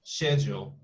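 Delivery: "Schedule" with a sh start, shedjool; British schedule. Shown as a demonstration. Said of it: "Actually, it's really hard".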